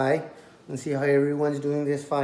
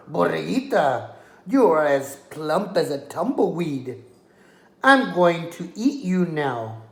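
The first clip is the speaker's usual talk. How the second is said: growling coyote; 4 dB louder than usual. Acted. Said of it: "He growled".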